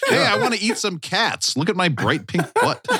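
high, goofy puppet-alien voice; squeaky sitcom alien voice; Alf. Retold or imitated. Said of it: "Do you guys like my Alf impression?".

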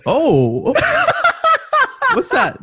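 high, laughing mock discovery; mock excitement. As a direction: act like you just noticed. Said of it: "we're like".

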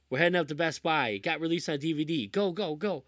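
retold giddy urgency; excited rush. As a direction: hurry them out the door. Excited call about the release.

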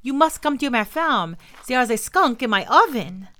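put-on loud, high French-accented plea; crying out. A narrator's reading. Old woman needing help with a skunk, crying out. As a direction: urge the neighbor to come, full of alarm. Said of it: "she cried out".

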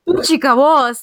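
Puchika Voz said the Spanish way, poo-CHEE-ka VOS; Spanish pronunciation. Shown as a demonstration. Host correcting the guest's pronunciation of the show name, Spanish way. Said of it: "the way that, like, Puchika is supposed to be said technically".

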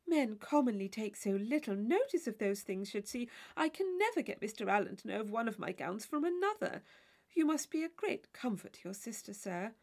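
a silly chaperone worried over her gown; fussy Mrs Allen. Acted. Mrs Allen praising Tilney.

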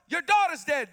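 rising frantic shout; servant yelling bad news. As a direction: cry out the news as if to a desperate father.

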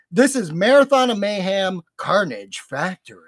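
measured, dramatic promo reading; announcer read. Acted. Host reads haunt show announcement to listeners, announcer style. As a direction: read the show blurb with theatrical emphasis.

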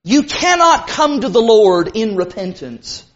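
emphatic, measured insistence on "cannot". Real, not acted. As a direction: lean firmly on "cannot". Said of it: "I want to say this very emphatically".

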